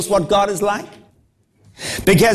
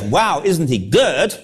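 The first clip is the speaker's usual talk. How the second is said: admiring wow; slower than usual. Retold or imitated. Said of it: "not because".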